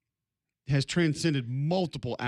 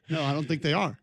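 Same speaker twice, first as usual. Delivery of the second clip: ordinary talk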